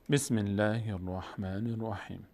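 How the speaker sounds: slow measured recitation. Shown as a demonstration. Teacher reciting the basmala, slowly. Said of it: "آداب تلاوت".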